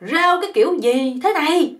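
mock angry shout at the noodle shop; yell. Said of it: "ảnh mới la lên".

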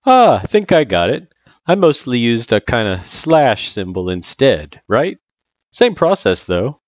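lightly voiced tutor working it out; Sans, easygoing tutor. Sans explaining the division symbol, casual.

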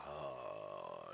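low, slow, heavy groan; heavy sagging voice. Shown as a demonstration. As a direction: let the voice sag low. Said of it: "이렇게 무겁게 처져 있단 말이에요".

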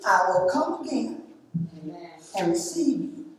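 measured reading of a Bible passage; solemn Bible reading; scripture reading. Acted. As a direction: read the verses steadily, pausing between phrases. Reads John fourteen aloud.

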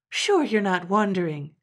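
can't believe her ears; incredulous grandma. Acted. Grandma doubting grandpa's news, loud and incredulous.

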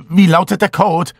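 high urgent shout. A narrator's reading. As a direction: yell it in panic. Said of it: "schrie ich".

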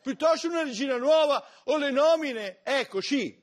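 high-pitched indignant squeal; high squeaky outrage. Acted. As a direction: squeal it out, scandalized.

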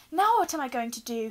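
high, loud, shrill dismay. A narrator's reading. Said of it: "she asked shrilly".

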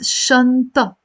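شنطة ending in open -a, no T; shan-ta with a silent final T; word said alone. Shown as a demonstration. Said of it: "In alone, I pronounce it".

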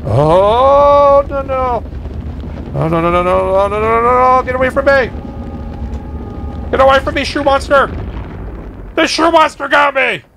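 panicked no no no; frantic, fleeing a monster; being chased. Real, not acted. Monster chasing the character.

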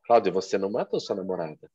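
"você não matou sua namorada" as a settled fact, falling at the end; "namorada" drops to close the statement; plain statement. Shown as a demonstration. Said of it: "falar a mesma frase de vários jeitos".

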